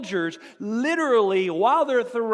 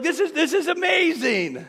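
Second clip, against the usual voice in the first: thrilled words broken by laughter; laughing; 8 semitones higher, 5 dB louder than usual. Retold or imitated. Boys in the fire, laughing at the miracle. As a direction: laugh through it, delighted. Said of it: "And they're laughing".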